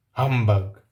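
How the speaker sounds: loud, low, gruff miser's bark; grumpy Scrooge. Acted. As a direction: bark it like a mean old miser. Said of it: "said Scrooge".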